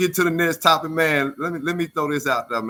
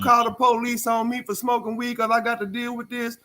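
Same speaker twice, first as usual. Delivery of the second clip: voicing the son; 8 semitones higher than usual. Son voiced in retelling.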